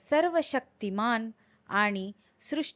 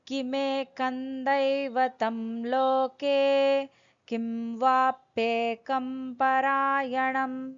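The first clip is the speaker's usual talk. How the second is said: slow, measured Sanskrit chant; over enunciating; 3 semitones higher, slower than usual. Acted. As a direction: recite every syllable carefully and slowly. Sanskrit verse recited before translation.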